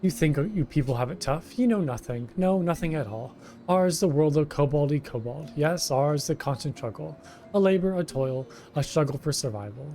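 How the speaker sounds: whiny kobold. Acted. Kobold foreman Gigu complaining to the hero, wheedling. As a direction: play a self-pitying kobold pleading with a stranger.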